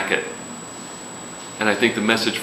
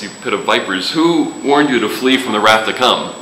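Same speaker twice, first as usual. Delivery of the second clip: mock pastoral tone; 3 dB louder than usual. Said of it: "in his best pastoral tone".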